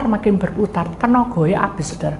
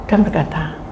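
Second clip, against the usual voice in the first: usual speaking voice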